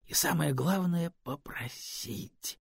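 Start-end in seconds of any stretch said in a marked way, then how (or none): 1.2-2.6 hushed. A narrator's reading. Робкое желание попросить.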